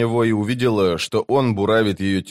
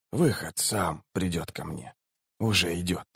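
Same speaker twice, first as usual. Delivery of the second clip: hushed, lowered voice of a dying man; speaking quietly; 5 semitones lower, 10 dB quieter than usual. A narrator's reading. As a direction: let it sink very low and soft. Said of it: "тихо проговорил он". (тихий низкий голос умирающего)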